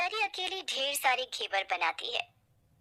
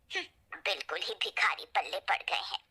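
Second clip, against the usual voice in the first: a spiteful whisper under the breath; whispered aside; 4 semitones lower than usual. Acted. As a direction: hiss it to yourself, out of earshot. (फुसफुसाकर ताना)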